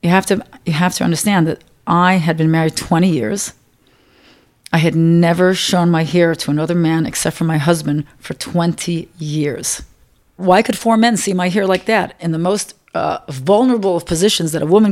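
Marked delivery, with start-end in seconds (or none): 0.0-9.8 choked up. Real, not acted. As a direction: voice tight with held-back tears. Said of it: "I'm choking up thinking about it".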